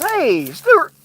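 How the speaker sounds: a hint of a fake friendly boss; mock slick recruiter. Comes up to me and says.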